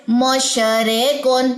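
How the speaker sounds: मोशरे कौन with long, shifted vowels, slowly; मोशरे कौन, drawn out the wrong way; wrong reading. Shown as a demonstration. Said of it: "अगर हम इसे पढ़ें". (गलत उच्चारण, मोशरे कौन)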